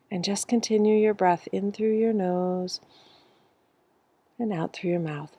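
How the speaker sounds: measured meditation-teacher cadence with long pauses; guided breathing. Real, not acted. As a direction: lead the group breath by breath, stretching the words. Leads a breathing exercise.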